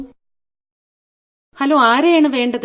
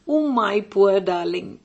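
mock pity; 3 semitones lower, 4 dB quieter, much slower than usual. Teasing lover on the phone.

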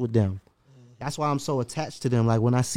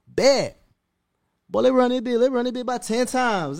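hype; 10 semitones higher than usual. Real, not acted. Excited hype about the song.

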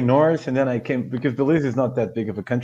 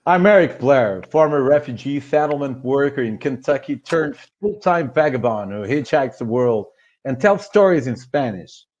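reading in a put-on American accent; light general American accent. Shown as a demonstration. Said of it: "I'll try to do the most American accent I can".

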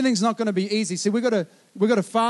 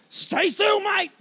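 higher, urgent command as the dog closes in; urgent call to son; 10 semitones higher, much slower than usual. Retold or imitated. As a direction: freeze him with an urgent call. Dad instructing son facing dog.

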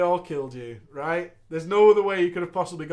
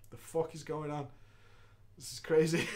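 muttered bewilderment; 4 semitones lower, 10 dB quieter than usual. Retold or imitated. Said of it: "I stood there with my swords like".

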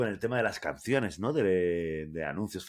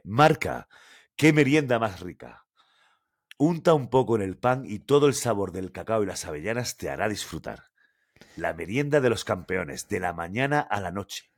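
reading the ad text like a voice-over; 5 dB louder than usual. Shown as a demonstration. Host reads a TV ad to his co-host, ad voice-over style. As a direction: read it out like a commercial.

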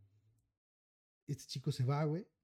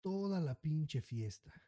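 put-on menacing old man; 3 semitones higher, much slower than usual. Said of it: "le dice". (el suegro armado amenaza en voz baja y lenta)

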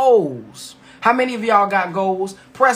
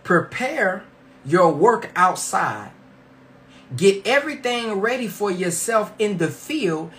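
over enunciating; slower than usual. Shown as a demonstration. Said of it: "the scripture says".

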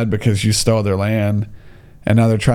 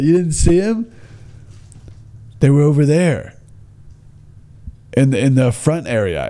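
commit to the mock Minnesota lilt, then settle; second accent attempt; 2 semitones higher than usual. Guide points visitor to tracks, imitated Minnesota accent. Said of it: "I don't know how to do the accent".

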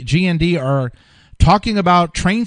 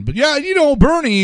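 a light, much higher imitation of Trump talking casually; chatty Trump impression; 10 semitones higher than usual. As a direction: toss off the name like an offhand chat.

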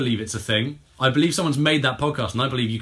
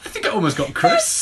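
backwards speech; 5 dB louder than usual. Real, not acted. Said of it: "Did not sound like anything".

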